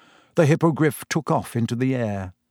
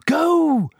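high, loud GO; Harry and Hermione shouting Sirius off; 4 dB louder than usual. Acted. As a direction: yell him away. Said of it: "Harry and Hermione shouted together".

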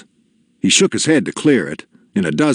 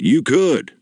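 high, lifted affirmation; bright-pitched, encouraging yes; encouraging father; 7 semitones higher than usual. A narrator's reading. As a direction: assure the giant eagerly.

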